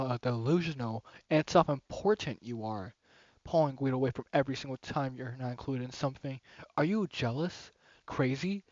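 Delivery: cold cruel Yuri. Acted. Yuri turning on Monika, cold and cutting. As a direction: tear into her with icy scorn. Reading Yuri's cruel rant.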